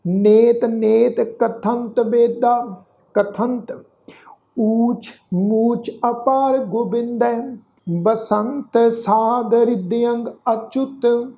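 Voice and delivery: slow, measured verse reading with held vowels; drawn-out devotional reading; scripture recitation. Shown as a demonstration. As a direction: recite the sacred verse slowly, stretching the endings.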